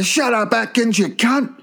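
yelling at a bird. Retold or imitated.

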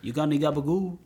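lightly put-on Italian American; Italian American accent. Cohost asking for deli meat, Italian American accent. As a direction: ask in Italian American lingo. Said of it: "all the Italian American lingo".

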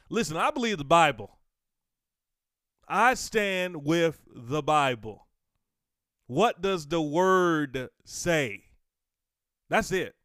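loud, slow, emphatic preaching; fiery preaching. Acted. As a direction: declare it from the pulpit. Preaching at full force.

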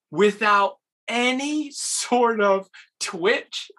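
usual speaking voice

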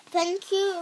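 loud roaring thanks; lion roaring. A narrator's reading. Lion thanking the doctors, loud roar. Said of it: "roared the lion".

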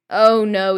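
a loud, drawn-out groan. A narrator's reading. Ron groans at his mum's parcel, loud groan. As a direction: groan it like bad news just arrived. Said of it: "he groaned".

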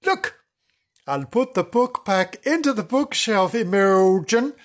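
very high, prim voice; high character voice. A narrator's reading. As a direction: speak it high and prissy.

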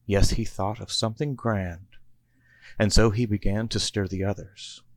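sing-song Christmas rhyme reading; a cozy holiday storybook narrator; storybook poem narration. A narrator's reading. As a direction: read it like a bedtime Christmas poem. Narrator reads rhyming Christmas poem.

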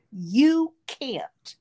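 intense breathy whisper right in her face. Retold or imitated. Pastor leaning in close to her face, whispering. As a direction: hiss it close, like a secret truth. Preacher confronting her at altar.

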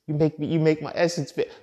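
high, put-on swooning woman voice; imitating a woman swooning over a masculine man; mock girly voice. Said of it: "women say they wanna be".

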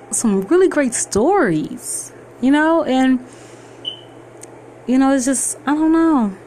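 bright, smiling, eager rush of words; smiling excitement. Real, not acted. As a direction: let the grin come through the voice. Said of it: "hear the smile of the".

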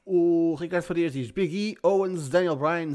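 usual speaking voice

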